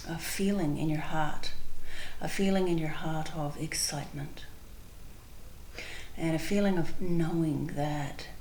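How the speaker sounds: calm, unhurried guided visualization with long pauses; spontaneous meditation leading, measured and spacious. Real, not acted. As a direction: guide listeners gently inward, pausing between phrases.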